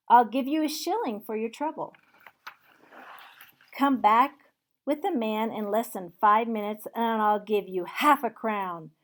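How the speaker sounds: loud, urgent and cheerful; eager order. Acted. Scrooge sending the boy for the turkey, loud and eager. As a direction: urge the boy on.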